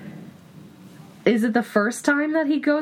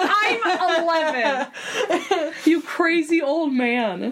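laughing; 5 semitones higher, slower than usual. Pretend. Joking as Harry to Dumbledore.

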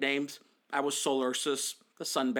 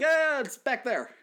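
mock waiter; 7 semitones higher than usual. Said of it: "he's like".

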